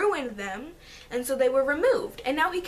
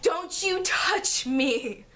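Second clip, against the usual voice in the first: slow mock warning; 4 semitones higher, much slower than usual. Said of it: "and I was like".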